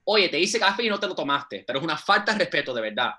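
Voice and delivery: fast scolding Spanish rant; grandma scolding. Retold or imitated. Abuela scolds grandson for not drinking coffee, fast rant. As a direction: scold him quickly like an offended grandmother.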